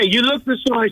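high-pitched mimicked nonna; Italian grandmother. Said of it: "I remember my grandmother, she was like that".

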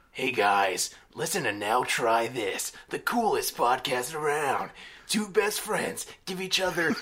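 measured, slightly drawn-out announcer read; podcast intro read. Acted. Redoing the intro for two best friends, announcer read. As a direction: sell the show with a slow build.

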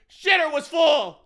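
high, loud, slow yokel shout; loud slow hick holler; Cousin Eddie impression. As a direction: bellow it like the slob next door.

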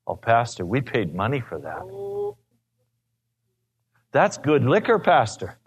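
a hint of a whining drunk clinging to the bottle; drunk couple voice. Drunk couple protests pouring liquor.

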